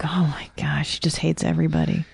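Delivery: soft quick whisper. Retold or imitated. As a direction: murmur it under your breath. Inner thought quoted.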